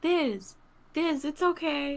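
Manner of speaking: high, tearful, crying voice. Player character in a roleplay game comforts another character, crying while speaking. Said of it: "I say as I'm still crying black tears".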